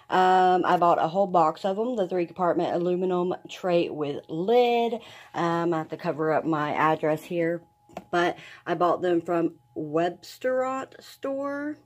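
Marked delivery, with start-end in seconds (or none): 5.3-11.8 words slurred around a new dental plate; speaking carefully with fresh dentures; talking funny from new dentures. Real, not acted. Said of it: "Talking a little funny right now".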